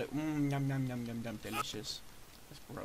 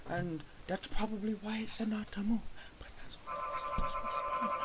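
soft whispered aside to himself; muttered whisper; 2 semitones higher, 7 dB quieter than usual. Acted. Player after dying, whispering a sheepish aside.

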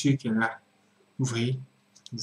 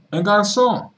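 shocked reveal; 8 semitones higher, 5 dB louder, slower than usual. Real, not acted. Host reveals the shocking detail.

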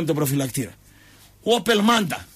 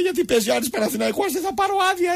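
mock pleading in a very high voice; Bougiouklis; 11 semitones higher than usual. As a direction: imitate a soldier's squeaky whine about leave. Imitates fellow soldier Bougiouklis pleading.

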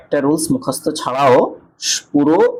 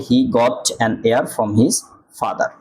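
slow demo reading; much slower than usual. Shown as a demonstration. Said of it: "এন বসাইতে হয়".

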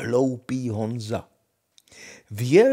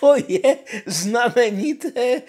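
se smíchem; 12 semitones higher, 8 dB louder than usual. Acted. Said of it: "smála se princezna".

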